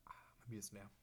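whispering to herself; whispered aside. Real, not acted. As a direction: breathe it as an aside. Quiet aside about empty beer.

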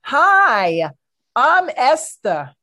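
put-on high, lightly Yiddish-accented Jewish wife. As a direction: play a fussy Jewish wife with a Yiddish lilt. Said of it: "Let's look at Esther".

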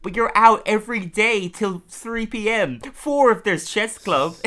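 high, loud retold protest; high-pitched mock indignation; exasperated objection. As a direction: voice a cartoon character objecting, pitched well up. Acting Doreen's objection in cartoon.

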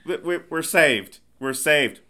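loud hammed-up rejoicing; mock relief. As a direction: cry out as if rescued. Acting out the rescued crew.

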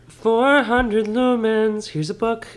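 high, slow TV pitchman; infomercial voice. Pretend. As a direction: sell it like a late-night infomercial. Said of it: "like, an infomercial voice".

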